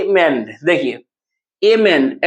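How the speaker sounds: अमेंड said slowly as "ए-मेंड", weight on मेंड; pronunciation demo. Shown as a demonstration. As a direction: draw out अमेंड in two parts, ए then मेंड. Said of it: "अमेंड कैसे उच्चारण करते हैं". (अमेंड को धीरे-धीरे "ए-मेंड" तोड़कर, मेंड पर ज़ोर)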